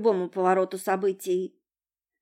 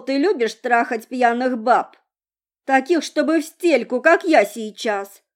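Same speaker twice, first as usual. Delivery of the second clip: put-on loud, higher drunken taunt; drunk woman voice; 4 semitones higher, 7 dB louder than usual. A narrator's reading. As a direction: tease him, sloppy and drunk. Drunk girl taunting him.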